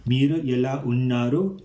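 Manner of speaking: careful Telugu pronunciation of "Meeru ela unnaru"; Telugu phrase. Shown as a demonstration.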